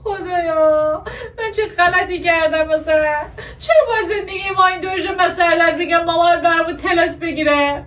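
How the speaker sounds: cracking up while pretending to weep; laughing through fake tears.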